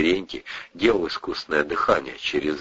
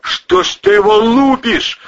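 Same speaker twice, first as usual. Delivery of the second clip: high, loud indignant cry; indignant exclamation; 8 dB louder than usual. Acted. Cousin defending the husband, loud indignant cry. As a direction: stand up for the husband, outraged. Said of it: "с негодованием воскликнул".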